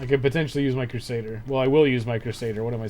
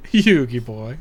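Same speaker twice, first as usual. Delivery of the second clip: lightly imitated cartoon villain, louder; a loud, playful hint of the villain's catchphrase; Pegasus; 7 dB louder, slower than usual. Player quoting Yu-Gi-Oh villain, light loud impression. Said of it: "I fucking love the way he talks".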